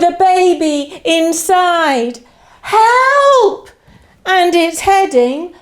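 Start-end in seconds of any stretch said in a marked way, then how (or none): 2.6-3.7 high, hammed-up call for help; mock cry for help. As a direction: call out in pretend alarm.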